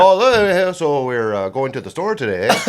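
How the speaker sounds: lightly attempted Norwegian accent. Teasing girlfriend about her family, in a shaky attempt at a Norwegian accent. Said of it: "her family's all Norwegian".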